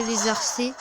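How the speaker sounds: arcers with s for the ch sound; lisp slip. Real, not acted. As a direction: say arcers with a hissing s, not ch. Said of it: "j'avais un cheveu sur la langue". (cheveu sur la langue)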